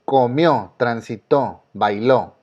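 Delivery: "Comió, transitó, bailó", each stressed on its final syllable; acento agudo. Shown as a demonstration. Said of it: "llevan acento". ("Comió, transitó, bailó" con fuerza en cada última sílaba)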